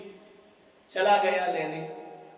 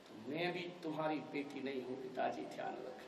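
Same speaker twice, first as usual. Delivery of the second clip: hissed threat; 5 semitones lower, 14 dB quieter than usual. Acted. Daughter's hushed threat.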